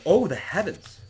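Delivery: a high, loud cry of dismay. Acted. Miranda hearing of betrayal, loud high cry. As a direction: Miranda gasps it out to the heavens. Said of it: "Miranda cries out".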